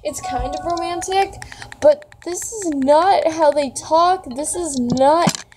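high-pitched, flustered protest; worked-up and stumbling, pitched high; overwhelmed, near tears. Real, not acted. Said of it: "I am gonna cry".

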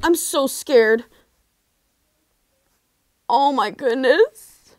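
scared. Real, not acted. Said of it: "I'm scared".

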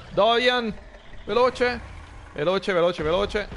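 high, urgent calling out; frantic urging. Real, not acted. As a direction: hurry the companion, panicking. Frantic calling during fight. (richiamo frenetico e acuto)

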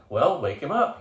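loud, demanding order; impatient general. Acted. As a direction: bark the order. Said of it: "he demanded".

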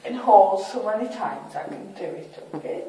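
tipsy, words a bit slurred. Real, not acted. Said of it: "I can't handle drink".

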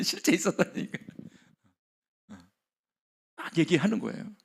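usual speaking voice

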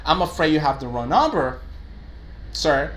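a polite, gentle customer-service reply; polite version. Shown as a demonstration. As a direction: soften it for the client. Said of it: "But an expression like".

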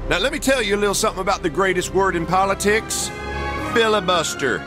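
indignant tirade. Acted. Politician threatens the president with a filibuster, indignant tirade. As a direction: lay down the law with indignation.

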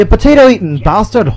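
put-on Scottish jeer; Scottish accent. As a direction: hurl it in a mock Scottish accent. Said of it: "That's a Scottish accent".

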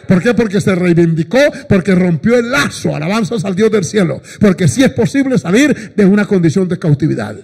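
loud, emphatic sermon delivery; preacher building to praise; fervent preaching. Real, not acted. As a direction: drive each reason home to the congregation. Preaches at full force.

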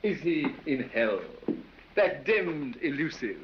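proud recital of a silly poem. Acted. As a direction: recite the verse with flourish. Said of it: "you must hear my verse".

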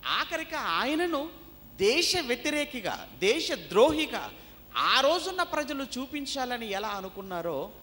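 high, emphatic pulpit voice; forceful preaching. Real, not acted. Preacher on Jesus branded a traitor, emphatic.

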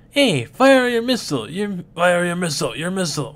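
high, loud urgent yell. Acted. Urging a partner to fire the missile, shouting. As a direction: bark the order to fire, high.

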